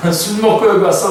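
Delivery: amused imitation of a scolding priest; laughing mock scolding. Priest to a praying woman he takes for drunk, laughing mock reproach. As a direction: say it through a chuckle.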